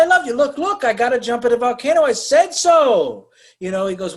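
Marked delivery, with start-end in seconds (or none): 0.0-0.3 high, loud "I love you"; mock yell of love mid-quarrel; exasperated declaration. 0.3-3.3 high, loud frantic bickering; exasperated hammed-up protest; mock quarrel. Mock lovers' quarrel in retold scene.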